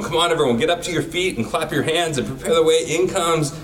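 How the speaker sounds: a hint of a stadium hype man; arena announcer. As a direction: pump up the crowd like a courtside announcer, stretching the final call. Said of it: "I am the announcer at the beginning of the game".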